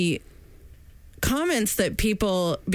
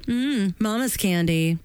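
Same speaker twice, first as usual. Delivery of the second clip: mock sweet lady; slower than usual.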